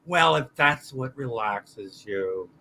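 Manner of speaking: slow, low and soft; hesitant acceptance. Retold or imitated. Classmates answering an odd music choice, hesitant acceptance. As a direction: let it out slowly, under your voice.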